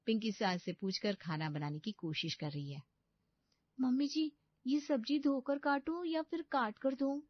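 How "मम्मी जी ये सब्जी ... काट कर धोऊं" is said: put-on higher, girlish bride's voice, dismayed; a pampered young bride panicking to herself; young bride's voice, dismayed at waking early; naive young bride. Bride asks mother-in-law.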